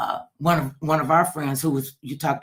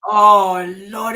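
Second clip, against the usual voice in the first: wow; 5 semitones higher, 10 dB louder than usual. Real, not acted. Reacting to horse ride.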